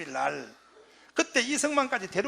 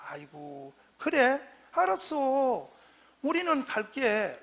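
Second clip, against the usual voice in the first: sulky; 3 semitones higher, 4 dB quieter, slower than usual. Retold or imitated. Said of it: "섭섭하게 나갔어".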